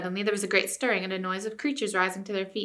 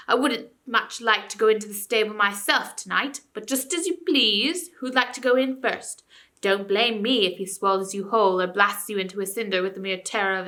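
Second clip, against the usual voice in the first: ranting ape; 4 dB louder than usual. Acted. Ape taunting the beasts.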